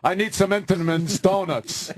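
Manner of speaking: lightly voiced brash crooner placing an order; a hint of a demanding old-time star; mock celebrity customer; Frank Sinatra. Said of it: "Frank Sinatra was a weekly customer".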